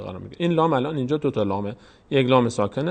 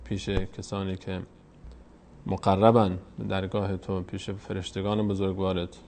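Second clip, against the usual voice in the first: prayer. Real, not acted.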